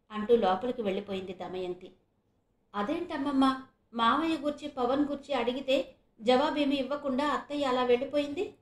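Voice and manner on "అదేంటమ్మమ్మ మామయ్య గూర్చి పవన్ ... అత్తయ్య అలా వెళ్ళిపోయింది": puzzled question, pitched higher; a touch of wonder, asking grandma why; surprised. Acted. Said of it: "అన్నాడు శశికిరణ్ ఆశ్చర్యంగా".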